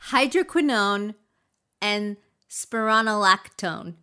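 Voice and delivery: loud, deliberate hydroquinone and spironolactone; careful final attempt. Shown as a demonstration. Reader's final try for co-host, careful hydroquinone and spironolactone. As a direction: hydroquinone with kwin, spironolactone with RON, firmly. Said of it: "Good enough".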